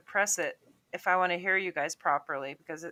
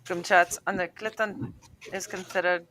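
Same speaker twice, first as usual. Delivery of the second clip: put-on accidental Scottish accent, halting. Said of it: "Now it sounds Scottish".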